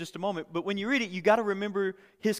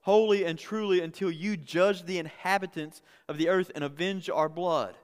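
raised voice, pleading with God; a mild retold cry of the martyrs; loud outcry. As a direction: call it out loud. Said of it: "They called out in a loud voice".

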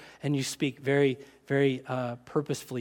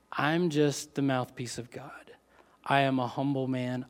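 soft, lower whispered humility; humble whisper; 6 semitones lower, 6 dB quieter than usual. Acted. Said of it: "And Amos humbly says".

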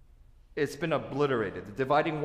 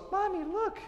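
put-on much higher, childlike little girl voice with a laugh. Little girl tells her mommy to look at the newcomers, high childlike voice. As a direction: play a small girl pointing at strangers. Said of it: "one little girl goes".

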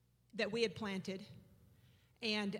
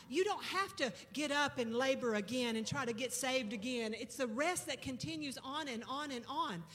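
preaching. Acted. Pastor preaching rest to the congregation, building fervour. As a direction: press each phrase home like a sermon.

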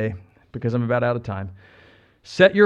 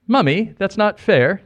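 child's plea in a put-on British accent, higher and slow; 6 semitones higher, 4 dB louder, slower than usual. Kid complaining to a parent, mock British accent. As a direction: plead like a British kid, drawn out. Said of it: "That's my British accent".

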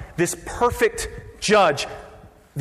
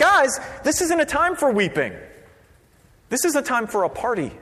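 raised-pitch plea to the crowd; urging correction; 6 semitones higher than usual. Acted. Leaders telling weepers to party, urging. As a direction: talk them out of it, voice lifted. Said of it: "They're like".

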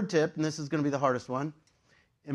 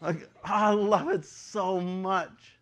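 choked up; 4 semitones higher, much slower than usual. Real, not acted. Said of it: "I'm getting emotional".

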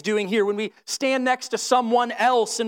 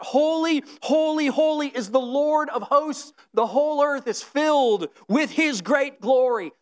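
crying out; 3 semitones higher than usual. Retold or imitated. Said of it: "they're crying out".

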